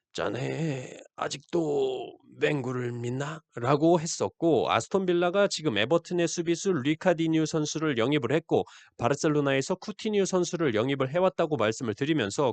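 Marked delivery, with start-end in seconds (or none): 0.1-3.4 put-on very slow, drawn-out elderly grandpa voice. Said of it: "오징어 게임의 오일남 할아버지 성대모사를 따라하면서".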